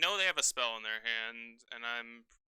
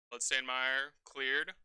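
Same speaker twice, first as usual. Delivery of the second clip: ordinary talk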